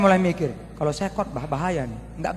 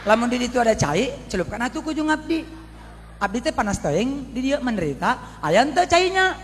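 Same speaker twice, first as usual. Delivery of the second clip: put-on Sundanese-accented plea; 5 semitones higher than usual. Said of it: "Mentang-mentang dia orang Sunda".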